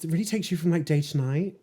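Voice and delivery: hushed, breathy sales pitch whisper. Pretend. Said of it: "But do it in a sales voice".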